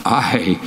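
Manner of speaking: "I" held long as the stressed word; emphatic I. Retold or imitated. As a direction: set "I" apart with firm emphasis. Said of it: "is emphatic".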